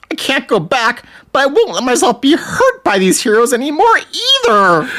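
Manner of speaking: high, whiny melodramatic villain; overacted anime dub. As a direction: overdo it like a bad anime dub. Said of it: "Diablo thinks".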